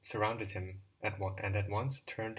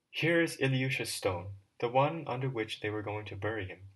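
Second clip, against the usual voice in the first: exclaiming; 3 semitones higher, 6 dB louder than usual. Acted. Smirnov calls to the boys on finding the stone, exclaiming. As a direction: point it out with a start. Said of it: "suddenly Smirnov exclaimed".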